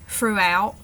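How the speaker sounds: "throughout" starting with f, like "froughout"; Cockney f for th. Shown as a demonstration. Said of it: "changed to an F sound".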